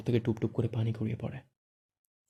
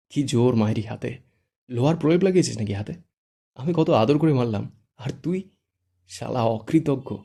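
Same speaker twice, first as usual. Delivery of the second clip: mock complaint; 4 dB louder than usual. Shuddho mock-complains after slap.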